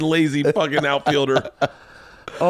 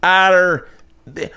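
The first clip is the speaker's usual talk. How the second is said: high, slow, halting botched Scottish woman; Scottish attempt slipping into Taiwanese, cracking up; bad female Scottish accent; 8 semitones higher, slower than usual. Scottish chick praising a comedian, badly faked Scottish accent. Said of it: "you've gone Taiwanese".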